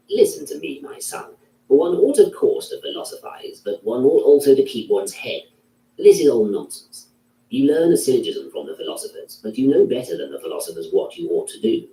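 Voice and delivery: a hint of an elder scolding a young philosopher; old man. A narrator's reading. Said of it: "Some white-haired old man with many a gold ring".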